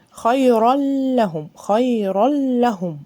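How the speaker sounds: خيرا لهم with the tanween merged into a doubled lam; slow Quran reading; tajweed recitation. Shown as a demonstration. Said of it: "اللام مشددة".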